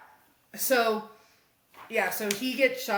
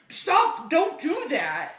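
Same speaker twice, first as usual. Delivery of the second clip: higher, louder mock cop command; retold shouted order; 6 semitones higher, 3 dB louder, slower than usual. Cop breaking up the kids' fight, mock shouted order. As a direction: call out a mock order to stop.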